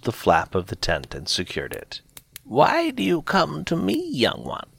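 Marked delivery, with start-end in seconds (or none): 2.4-4.7 put-on soft, higher old woman's voice; quietly asked, a little higher; softly. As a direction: speak gently to the young one. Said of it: "the old woman said softly".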